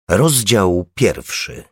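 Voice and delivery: usual speaking voice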